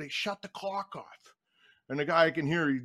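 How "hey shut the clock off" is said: slow, high, soft mock holler; retold yell. Coach calls to timekeeper about running clock, mock yell. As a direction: imitate a yell without the volume. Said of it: "I yell at him".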